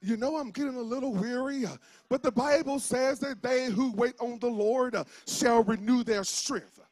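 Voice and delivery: lightly put-on church-folk scripture voice. Shown as a demonstration. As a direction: quote scripture with a touch of churchy piety. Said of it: "The church me may use all the spiritual jargon".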